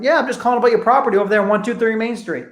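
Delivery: brisk cheerful pitch; upbeat and fast casual caller; upbeat, quick. Shown as a demonstration. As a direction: keep the energy rolling. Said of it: "You hear my tonality?".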